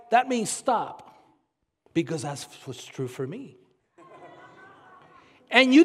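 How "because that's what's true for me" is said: mock relativist.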